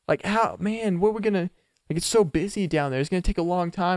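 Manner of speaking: lightly voiced date fretting over the busy line; mimicking date. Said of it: "She's like".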